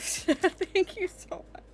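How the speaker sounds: high slow gushing; laughing, squeaky thanks; squealing thanks. Real, not acted. Overwhelmed thanks.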